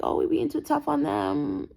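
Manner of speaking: high, drawn-out mock lament; retold worry. Retells her earlier worry about kids.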